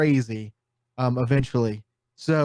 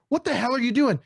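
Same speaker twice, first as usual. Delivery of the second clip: mock outcry; 10 semitones higher than usual. Acts out outcry on Titanic.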